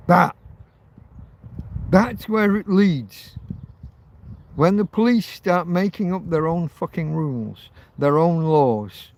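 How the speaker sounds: a rising angry rant. Real, not acted. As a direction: spit out the outrage at the police. Angry rant about police.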